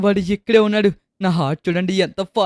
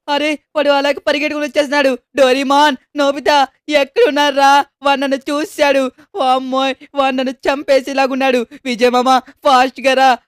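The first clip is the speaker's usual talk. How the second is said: panicked calling; 4 semitones higher than usual. Acted. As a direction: cry out to your friend while being chased. Player chased by killer, begging.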